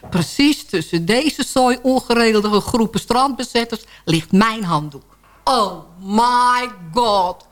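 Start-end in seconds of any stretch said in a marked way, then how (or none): 5.4-7.5 dismayed groan. Acted. Seeing her handdoek surrounded.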